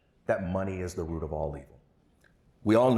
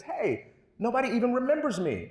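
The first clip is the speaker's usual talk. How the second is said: put-on high child voice, complaining; upset kid; 13 semitones higher than usual. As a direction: whine it like a hurt kid, pitched up.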